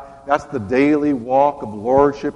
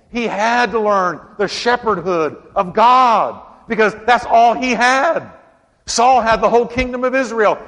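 raised, emphatic sermon delivery; impassioned preaching; 4 semitones higher than usual. Acted. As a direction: preach it to the congregation, punching key words.

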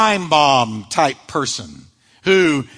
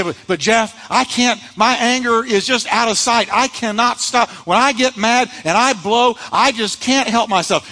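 higher, pleading voice of someone making excuses; whiny excuse-maker; 5 semitones higher than usual. Retold or imitated. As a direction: play the listener who insists he can't stop, a bit higher. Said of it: "You say".

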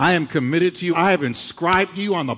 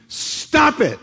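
commanding, with a laugh; 10 semitones higher than usual. Acted. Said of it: "That's the Greek".

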